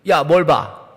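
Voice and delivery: a hard, loud "뭘 봐?" that dares them to keep looking; rough challenge. Shown as a demonstration. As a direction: snap it out as a warning, not a question. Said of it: "이러면 뭐예요, 이건?".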